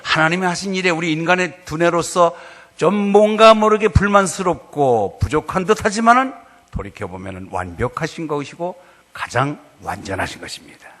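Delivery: ordinary talk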